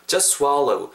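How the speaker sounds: just run into swallow without its t; dropped T. Shown as a demonstration. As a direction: link just swallow, losing the t. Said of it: "T 사운드 중간에 날아가 버리죠". (just의 t 없이 swallow로 이어서)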